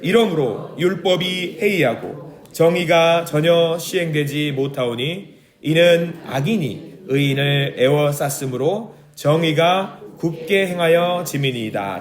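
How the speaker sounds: slow, measured Bible reading; reading the verse aloud for the congregation, slow and grave; solemn scripture reading. Shown as a demonstration. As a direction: read each phrase slowly and deliberately. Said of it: "사 절 읽겠습니다".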